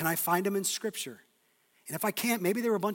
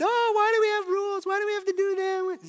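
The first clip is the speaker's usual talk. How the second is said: high-pitched mock whine; whining kid; 14 semitones higher, 6 dB louder than usual. Kids complaining to their parents about rules, whining. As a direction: whine it out loud like a fed-up child. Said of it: "whenever they've whined".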